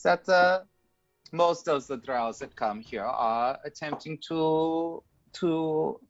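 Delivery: lightly voiced haughty dragon; a lofty dragon musing aloud. Dragon speaks to party.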